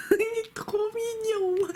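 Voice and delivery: high, drawn-out adoring whine; cutesy cooing. Real, not acted. Vlogger gushing over a cute card, high cooing. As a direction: melt over it, high and slow.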